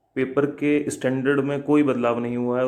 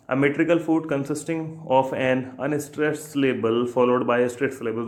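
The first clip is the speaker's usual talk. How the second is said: slow question reading; much slower than usual. Shown as a demonstration. Teacher reading an exam question to students, slowly.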